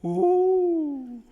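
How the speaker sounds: high, drawn huffs of rising anger; angry octopus huffing. Acted. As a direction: huff like a furious octopus. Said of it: "Mister Hay was hoo-hoo angry".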